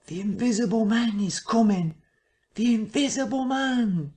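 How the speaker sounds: high, frantic warning cry; crying the alarm through town; panicked alarm cry. A narrator's reading. Townsfolk crying out the Invisible Man's coming, panicked.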